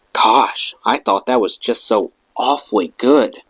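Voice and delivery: light imitation of a posh southern English accent; Julie Christie accent. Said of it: "in this fabulous Julie Christie accent".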